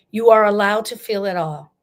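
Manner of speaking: loud rallying call to grievers. Shown as a demonstration. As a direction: proclaim it out loud to the whole room. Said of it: "I'm gonna say this very loud".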